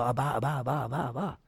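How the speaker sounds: lightly voiced little child calling Abba, Abba; a hint of a toddler reaching for daddy. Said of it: "they go".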